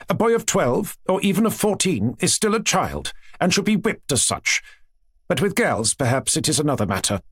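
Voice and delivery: a hint of a gushing princess; lightly voiced chatty princess. Princess telling her aunt about her children, lightly gushing.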